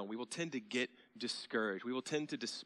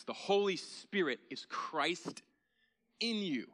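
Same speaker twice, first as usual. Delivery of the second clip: slow, rising higher to "in you"; emphatic climax; 7 semitones higher, slower than usual. Acted. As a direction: build up to the point. Climax of preaching point.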